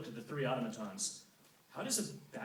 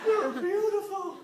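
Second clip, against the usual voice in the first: awed satyr; 10 dB louder, slower than usual. Acted. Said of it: "Grover got teary-eyed".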